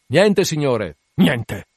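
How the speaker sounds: loud reply from the masthead; calling down. Acted. Lookout answering the captain from aloft, loud call. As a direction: shout the answer down to the deck.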